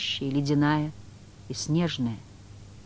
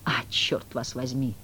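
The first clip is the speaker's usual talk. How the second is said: grumbling; 4 semitones lower, 5 dB quieter than usual. Acted. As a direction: grumble under his breath. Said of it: "буркнул Воланд".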